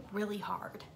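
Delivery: hushed whisper. Real, not acted. Telling the ghost encounter, whispered. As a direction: say it under the breath.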